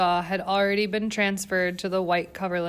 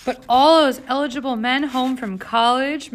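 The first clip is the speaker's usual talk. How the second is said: incredulous; 5 semitones higher, 6 dB louder than usual. A narrator's reading. Governess urging party.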